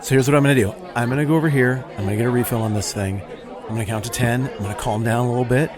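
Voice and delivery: settling down, sheepish and relieved; calming Pharisee. Acted. Jeff the Pharisee thanks Mike for listening, calmer.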